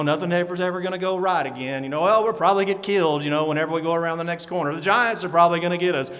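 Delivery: lightly voiced doom-and-gloom grumbler, rattled off fast; gloomy Puddleglum. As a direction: mutter every disaster as a sure thing, quickly. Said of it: "he talks like this".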